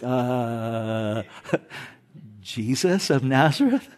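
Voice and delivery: quiet, hesitant, unsure question; meekly half-asking the answer with a nervous laugh; timid soldiers. Retold or imitated. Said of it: "They're like".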